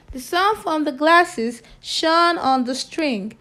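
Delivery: a teacher reading a picture book to pupils; story reading. Acted. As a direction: clear read-aloud storytelling voice. Reads story aloud to class.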